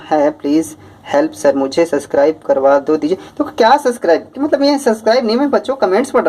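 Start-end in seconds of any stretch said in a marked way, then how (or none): 3.4-6.3 teacher shocked a student wants a subscription, surprised high retort. Real, not acted. YouTube teacher reacting to a subscribe request, high startled retort. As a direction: pitch jumps high in disbelief.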